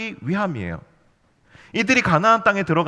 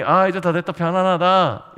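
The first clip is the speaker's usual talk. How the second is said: mock sigh-of-relief line, drawn out at the end; imagined relief; 2 semitones higher, 4 dB louder than usual. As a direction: act out Joshua's worries melting away, slowly. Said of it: "여호수아의 마음이". (안도하는 척 느긋하게)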